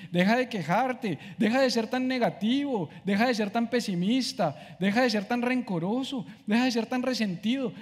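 scolding himself. Retold or imitated. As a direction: shake yourself out of it, firmly. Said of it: "me dan ganas como de pegarme dos cachetadas y decir".

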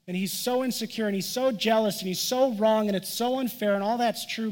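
a pastor voicing David's self-pitying grumble; mock bitter complaint. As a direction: vent the unfairness with rising heat.

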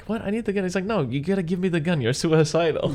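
high, exasperated retold protest; hammed-up insistent quarrel; mock argument. Retold argument over gun.

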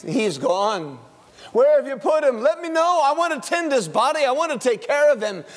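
rising, anxious pleading; pleading Mary. Acted. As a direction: beg to know where he is.

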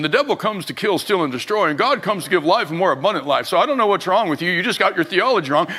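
brisk, unsympathetic lecture, mildly acted; theological lecturing. Preacher mimics his old self correcting a hurting woman, brisk lecturing. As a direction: rattle off correction with little empathy. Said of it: "couldn't even have empathy and sympathy".

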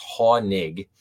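"Hoenig" said as HAH-nig; pronunciation shown. Shown as a demonstration. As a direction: say "Hoenig" in two syllables, HAH-nig, stress first. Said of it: "but it's pronounced".

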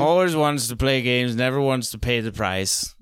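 lightly voiced drunk English butler, a touch grumpy; half-sloshed butler, close to own voice; old drunk English butler. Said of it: "old drunk English butler".

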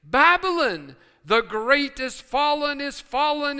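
loud proclaiming cry, slow on "the great is fallen"; mighty cry. Acted. The angel cries Babylon's fall with a strong voice. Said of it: "He cried mightily with a strong voice".

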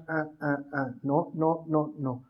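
low, soft repeated little no's; gentle refusal. Retold or imitated. Imitating the Lord correcting a believer, hushed no. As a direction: check someone quietly, one small no at a time. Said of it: "hacer caso al Señor cuando dice".

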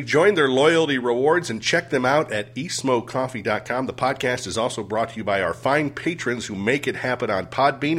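steady podcast sponsor read. Real, not acted. Host reads sponsor spots to listeners, ad read. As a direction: read the sponsor copy with punchy list endings.

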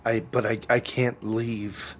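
halting and lost, long pauses; grieving, confused Moth. Acted. Trapped woman answering when she is, haltingly confused. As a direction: grope for the words, stuck and faltering.

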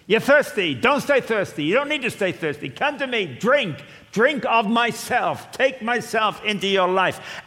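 high, loud urgent invitation; loud pleading call. Acted. Jesus calling to the thirsty, high and loud. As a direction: urge them to come and drink.

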